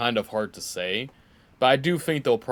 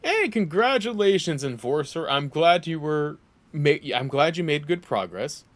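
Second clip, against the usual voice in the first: cheery congratulations; 4 semitones higher, 5 dB louder than usual. Acted. Game character congratulates player.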